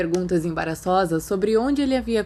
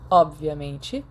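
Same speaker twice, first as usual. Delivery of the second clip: mock agreement; 4 semitones lower, much slower than usual. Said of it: "Remus concordou".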